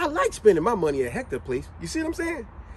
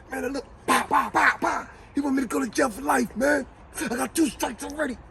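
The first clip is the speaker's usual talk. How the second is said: mock shout; 7 semitones higher than usual. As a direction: bellow it like the movie character. Re-acting Jody's rant.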